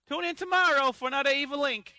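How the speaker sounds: put-on New York accent. The speaker signing off his audio strip in a New York accent. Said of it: "at the end he was from New York".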